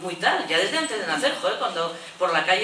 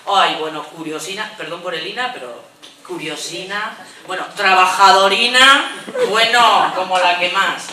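mock gushing list, louder on trabajadorina; doting neighbour; 7 dB louder than usual. Neighbour praising the unborn girl, mock gushing. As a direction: coo out each cute praise. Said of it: "cambia hasta el tono".

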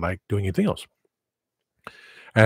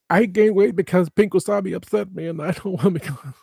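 mock whiny voice; 9 semitones higher than usual. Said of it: "It's like".

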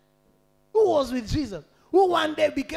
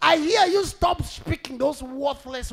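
raised, forceful voice of divine promise; preacher proclaiming as God; God speaking; 7 semitones higher, 7 dB louder than usual. Acted. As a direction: declare it with authority, stretching the condition. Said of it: "He said".

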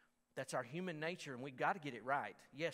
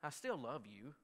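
father's tender words; 4 dB quieter than usual. Retold or imitated. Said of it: "and he said".

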